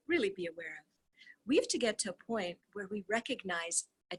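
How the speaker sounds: steady, even reading of a dialogue; reading a transcript aloud. Acted. Reader reads the call transcript to viewers, steady reading voice. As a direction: read the call text out, voicing both sides lightly.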